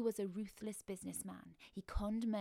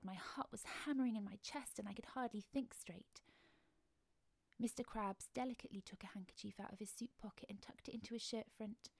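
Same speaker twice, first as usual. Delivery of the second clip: ordinary delivery, nothing marked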